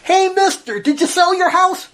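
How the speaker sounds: retold call to a man on his porch, pitched high. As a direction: hail him from the bike, mock yell. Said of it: "I yell out to the, to the guy".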